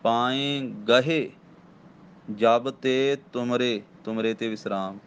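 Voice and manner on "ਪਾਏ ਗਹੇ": ਪਾਏ nasal, ਗਹੇ said slowly with no nasal; ਪਾਏ ਗਹੇ drawn out, ਗਹੇ left oral; slow ਪਾਏ ਗਹੇ, nasal only on ਪਾਏ. Shown as a demonstration. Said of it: "ਪਰ ਬਿੰਦੀ ਨਹੀਂ ਲਾਉਣੀ".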